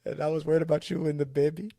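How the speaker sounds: lightly mimicked Carpathian accent, slightly high; a hint of comic Carpathian character; Janos. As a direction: do the funny foreign accent a little. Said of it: "it's just the way he talked was funny".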